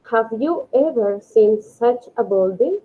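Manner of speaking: "Have you ever seen such a building?" said slowly, word by word; slow model reading. Shown as a demonstration. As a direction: read slowly in English. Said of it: "ejercicio dieciséis dice". (lectura lenta y clara del ejemplo en inglés)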